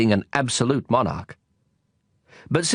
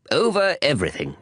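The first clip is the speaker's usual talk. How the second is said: simple; 3 semitones higher than usual. Acted. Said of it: "the king answered with great simplicity".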